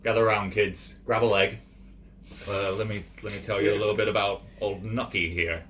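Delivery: loud, slurring tipsy dwarf telling tales; drunk dwarf storyteller. Acted. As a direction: play it as a jolly drunk gathering the kids. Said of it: "he's actually telling him".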